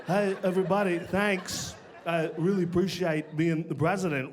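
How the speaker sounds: lightly voiced Walken impression, halting; a hint of Walken's odd pauses; Christopher Walken. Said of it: "Christopher Walken".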